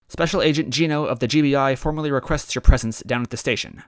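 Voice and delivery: lightly formal cop voice; officer voice. Acted. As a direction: put on a mildly official police tone. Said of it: "tried to do her best officer voice".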